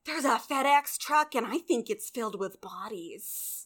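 lightly put-on Minnesotan neighbor; Minnesotan accent. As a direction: confide a silly suspicion in mock Minnesotan. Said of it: "Why are we suddenly Minnesotan?".

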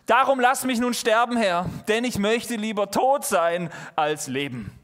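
dramatic despairing plea; theatrical lament. Acted. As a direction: cry out as if begging for death. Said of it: "theatralischer geht's ja nicht".

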